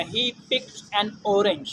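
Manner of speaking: slow, careful example sentence; deliberate teacher reading. Shown as a demonstration. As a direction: read the example word by word. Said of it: "example sentence read slowly".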